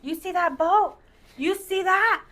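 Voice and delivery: retelling the racist boat owner's taunt, imitated; mock boastful racist. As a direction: sneer it out as him.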